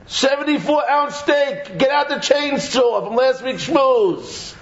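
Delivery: put-on high, slow, teasing child's voice; playful kid voice. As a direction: voice the kids at the grill asking what's next. Voicing kids ordering a steak.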